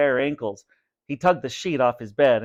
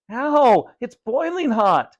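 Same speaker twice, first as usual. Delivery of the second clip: high loud cry of pain; pained yell; 11 semitones higher, 5 dB louder, slower than usual. A narrator's reading. Vinny drenched in hot goo, high pained yell. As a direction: scream as it burns.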